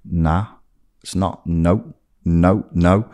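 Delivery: level, unargued series of noes; simple refusal. Retold or imitated. Him refusing to argue with his partner, level refusals. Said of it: "I just started saying to her".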